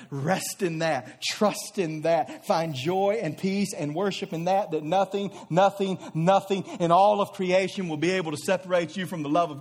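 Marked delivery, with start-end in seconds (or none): 0.1-4.7 tender. Acted. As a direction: linger gently on each phrase. Tender pastoral exhortation.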